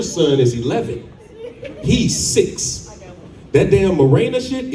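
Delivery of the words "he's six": high breathy whisper; whispered aside. Real, not acted. Comedian whispering his son's age to the crowd. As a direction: let it slip as a secret.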